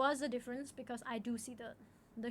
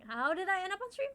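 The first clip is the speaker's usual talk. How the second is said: tearful; 5 semitones higher, 4 dB louder than usual. Real, not acted. Crying about her stream journey.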